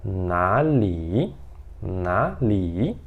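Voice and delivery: na li said slowly, without the R; southern na li. Shown as a demonstration. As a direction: na li, spelled out slowly. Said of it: "Eles falam assim".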